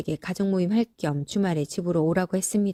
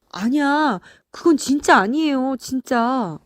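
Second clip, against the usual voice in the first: higher-pitched pleading protest; defensive denial; 6 semitones higher, 4 dB louder than usual. Acted. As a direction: insist you are innocent. Accused son denies it. (억울한 듯 높은 목소리로 부인하기)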